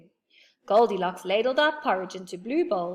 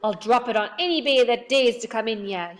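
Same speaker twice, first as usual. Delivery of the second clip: yell; 3 semitones higher, 6 dB louder than usual. A narrator's reading. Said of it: "yelled Moonface".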